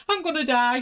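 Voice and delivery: high, half-laughing, half-crying wail; laugh-crying panic. Retold or imitated. Eyes shut on the motorway, high laughing wail of doom. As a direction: wail it, laughing at your own terror.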